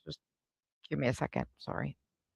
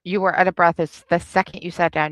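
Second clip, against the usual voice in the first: louder, punching "out of breath"; loud contradiction; 3 semitones higher, 6 dB louder than usual. Real, not acted. Friend loudly insists she was out of breath. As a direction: shut her down firmly.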